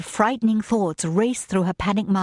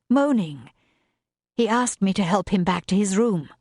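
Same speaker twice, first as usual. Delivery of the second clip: a hint of a young maid, higher, explaining herself; lightly raised voice of a housemaid pleading her case; lightly voiced earnest maid; 3 semitones higher than usual.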